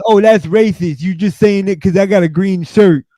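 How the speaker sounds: hammed-up outrage at being profiled; mock indignant customer. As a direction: customer accusing staff, mock offended and high. Customer accusing again.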